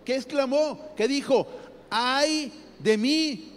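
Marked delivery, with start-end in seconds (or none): 1.9-3.5 slow, drawn-out cry of dread; long, slow frightened wail; frightened lament. Acted. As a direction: stretch out the wail like a man undone. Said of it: "exclamar, hermanos, es gritar como asustado".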